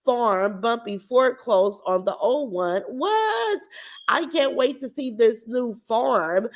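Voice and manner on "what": shocked what. Real, not acted. Shocked by a comment.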